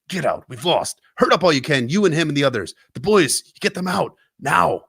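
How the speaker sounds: put-on old recruiter yelling at the girl to flee; urgent yell. A narrator's reading. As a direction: bark the retreat order in her face. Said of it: "screaming in her face".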